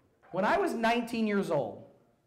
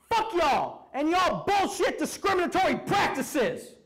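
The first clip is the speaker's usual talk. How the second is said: quoting Dutch's shirt; 10 semitones higher, 5 dB louder than usual. Retold or imitated. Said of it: "wearing white t-shirts on which he'd write".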